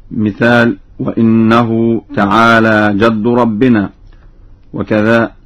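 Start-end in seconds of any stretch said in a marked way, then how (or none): 1.0-3.9 وإنه begins wa-inna, i on hamza; slow reading, clear i in وإنه; Warsh kasra hamza. Shown as a demonstration. Teacher gives an example from Surat al-Jinn, kasra on hamza. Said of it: "بكسر الهمزة".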